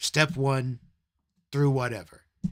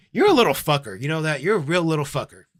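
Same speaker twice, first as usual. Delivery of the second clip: loud berating; 5 dB louder than usual. Real, not acted. Berating an imagined viewer.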